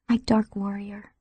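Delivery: slow aching whisper; painful whisper. A narrator's reading. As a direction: breathe it out in pain, slowly. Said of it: "Amber whispered painfully".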